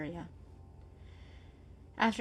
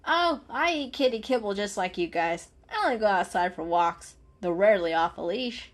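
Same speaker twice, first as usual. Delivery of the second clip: louder, friendly cat; golden cat voice; 6 dB louder than usual. Acted. Golden cat telling the kitties about walks. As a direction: chat cheerfully.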